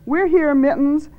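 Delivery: high, coaxing call; soothing call. A narrator's reading. Marcy calls into the cupboard to Mittens, soothing call. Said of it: "she called as soothingly as she could".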